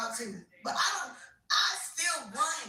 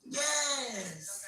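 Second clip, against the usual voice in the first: a hushed, breathy yes to herself; whispered yes. Real, not acted. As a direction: whisper it like a secret win. Quiet triumph after boast.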